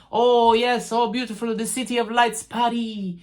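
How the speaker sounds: lightly put-on, bad French accent; hammy attempt at a French accent; horrible mock French accent. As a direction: fake a cheesy French accent on Paris. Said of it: "it's a horrible accent".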